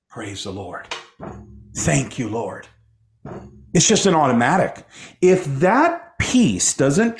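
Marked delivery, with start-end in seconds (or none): 0.1-2.7 very soft, low prayer of thanks; overwhelmed worship, voice dropped right down; hushed reverent praise. Acted. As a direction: murmur it humbly to God, low and hushed.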